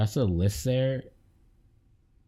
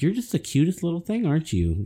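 cooing; 9 semitones higher than usual. Retold or imitated. Cooing at a tiny professor.

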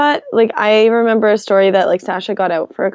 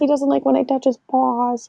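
mock apology; 4 semitones higher, 4 dB quieter than usual. Playful apology to the cat.

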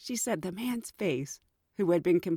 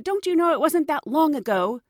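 higher, rising to a loud outraged scolding; indignant rant; 5 semitones higher, 4 dB louder than usual. Retold or imitated. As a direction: scold the complainer, building to a shout. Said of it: "He said".

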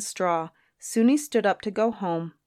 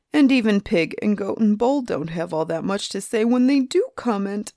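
gabbling complaint. Acted. Lonely griffin reproaches the boy, gabbling. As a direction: rattle off complaints until cut short. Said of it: "griffin's two gabbling mouths".

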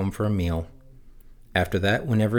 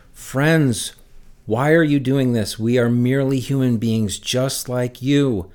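pleading shout; 3 semitones higher, slower than usual. Acted. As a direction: urge the crowd to stop, half-shouted. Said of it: "ran out among the people shouting".

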